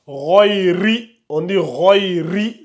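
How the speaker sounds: royri with a light, thin r; royri, ra aminci, not heavy. Shown as a demonstration. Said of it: "on amincit la lettre".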